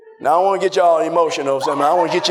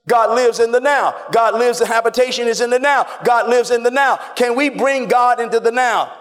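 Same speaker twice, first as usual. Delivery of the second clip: preaching at full force; 3 semitones higher than usual. Acted. Pastor to the congregation, preaching at full force. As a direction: drive it home to the congregation. Preacher hammering the point home.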